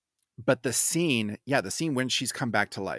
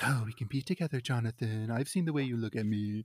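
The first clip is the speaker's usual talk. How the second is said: seductive; 6 dB quieter than usual. Retold or imitated. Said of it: "like, trying to seduce Harker".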